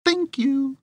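slow, prissy know-it-all read; snarky letter writer. Retold or imitated. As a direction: voice a smug correcting listener. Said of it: "Did I get your voice right".

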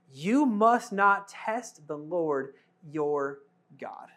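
solemn scripture. Acted. Jesus quotes scripture solemnly.

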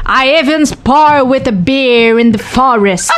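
slow mock boast in French-accented English; laying it on thick. Boxer retelling her tall tale to journalists, mock boasting. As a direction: draw out the tall tale, playfully hammed-up. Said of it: "J'ai même dit".

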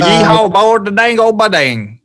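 hammed-up country hick accent; redneck country accent. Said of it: "redneck country accents".

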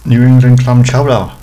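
New England clam chowder in a Boston accent, chowder as chowdah. Shown as a demonstration. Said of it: "I don't know how you're supposed to say that".

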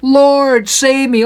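high, stretched plea for rescue; hammed-up cry of a sinking man; mock desperate cry. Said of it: "he cried, saying".

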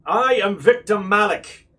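a lightly voiced stern official announcing a seizure; formal declaration. Victor Malik announces the ship's seizure, lightly voiced and formal. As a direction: proclaim it like a pompous scientist. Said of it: "and he says".

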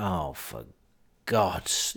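quiet, weary sigh of exasperation; barely bothered, fed up; exasperated. Retold or imitated. Weary reaction to drunk kid.

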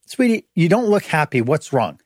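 coaxing, pitch up on sweetie; gentle pressing. Retold or imitated. Husband pressing his upset wife, gently coaxing. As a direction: press her kindly but firmly.

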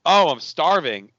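imitating a drawn-out complaint; mock whining. Unlikable girlfriend complains in the kitchen, mock whining. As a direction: whine it slowly, mocking her. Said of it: "like, whining about everything".

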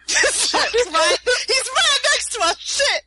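sudden high alarm; alarmed realization. Real, not acted. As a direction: panic as it dawns. Realizing the spy overheard.

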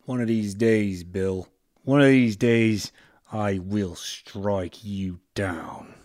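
put-on loud, slow Australian accent threat; Aussie accent, punching the opening. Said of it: "we faded into Australian".

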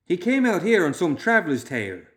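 high, loud, incredulous burst; outburst. A narrator's reading. Young man objects to trusting the clerk, bursting out. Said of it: "Loomis burst out".

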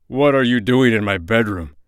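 loud, indignant demand; outraged cry. A narrator's reading. King finds intruder in his bedroom, loudly outraged. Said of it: "cried the king".

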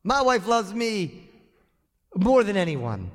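proud husband showing off his wife; boastful husband. Retold or imitated. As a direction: crow about your wife's love. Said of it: "It's like saying".

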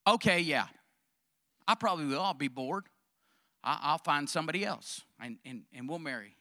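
low, soft, mock-casual concession; reluctant admission. Wife admits to husband she would remarry, reluctant admission.

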